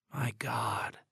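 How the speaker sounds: tired, breathy near-whisper; weary whisper. Acted. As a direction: let it slip out exhausted. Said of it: "he said wearily".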